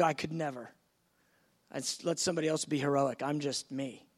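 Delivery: a meek, self-doubting murmur; timid refusal. Acted. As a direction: talk yourself small. Believer voiced shrinking back.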